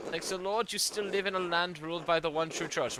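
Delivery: put-on light German accent for an old churchman's letter; a hint of a German accent, formal and measured. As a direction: read it as a German-accented archdeacon. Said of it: "I accidentally gave him a German accent".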